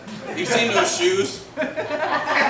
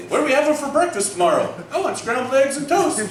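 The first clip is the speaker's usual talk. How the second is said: one brain side; 5 semitones higher than usual. Retold or imitated. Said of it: "This side's going".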